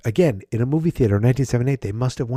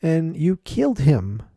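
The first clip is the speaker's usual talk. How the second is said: mock sorrow; 9 semitones higher than usual. Real, not acted. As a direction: mourn the shark with exaggerated pity. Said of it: "I felt bad for the shark".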